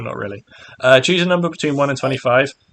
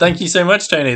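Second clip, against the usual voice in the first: laughing; 6 semitones higher than usual. Real, not acted. Laughing thanks for donation.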